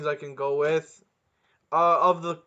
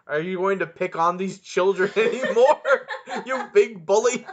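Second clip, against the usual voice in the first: playful telling-off, raised in pitch; mock scolding; 3 semitones higher, 4 dB louder than usual. Co-host teasing the speaker about picking on kids, mock scolding. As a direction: scold them through a laugh.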